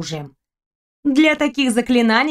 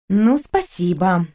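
sarcastic thanks; 3 semitones lower, slower than usual. Acted. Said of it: "бросила я Фризе".

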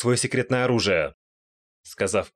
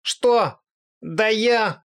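much higher, indignant outburst; outraged goddess; 12 semitones higher, 4 dB louder, much slower than usual. Acted. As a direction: sputter with outrage. Aqua enraged by whispers. (возмущённая богиня, высокий крик)

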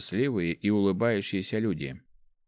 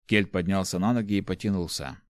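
ordinary delivery, nothing marked

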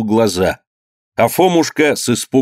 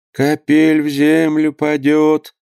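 slow singsong holy fool drone; holy fool muttering; 6 semitones higher, much slower than usual. A narrator's reading. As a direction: drone it slowly like a simple-minded fool. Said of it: "всё бубнил своё". (медленное бормотание юродивого)

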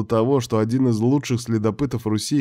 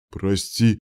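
usual speaking voice

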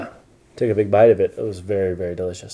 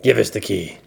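king rat; 4 dB louder than usual. Acted. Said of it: "said the king rat".

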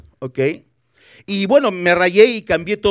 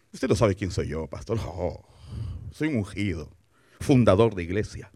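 lightly mocked arrogance; 10 semitones lower, 7 dB quieter than usual. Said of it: "qué terrible cuando ... te dice".

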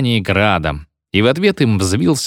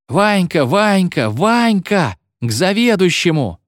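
higher yelling call of schoolboys; voiced as shouting pupils, kept light; 9 semitones higher, slower than usual. A narrator's reading. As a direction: call him out like a crowd of boys. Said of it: "вопили ученические голоса".

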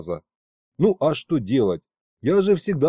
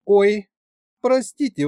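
embarrassed gasp; 8 semitones higher, 5 dB louder than usual. A narrator's reading. Queen catches herself, embarrassed.

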